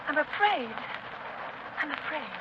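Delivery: frightened. Acted. Frightened woman pleads, voice fading.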